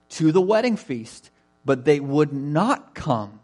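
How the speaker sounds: measured, emphatic Bible reading; scripture reading. Acted. Preacher reads the parable to the congregation, measured and emphatic.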